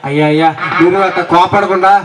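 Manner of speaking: grovel to the man who caught the trick; pleading beggar. Acted. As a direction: caught beggar whining for mercy.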